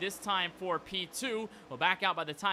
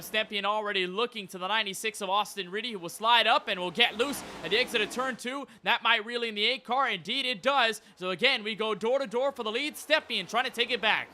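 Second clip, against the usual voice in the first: excited race call; 3 semitones higher, 4 dB louder than usual. Real, not acted. Live race call, cars door to door.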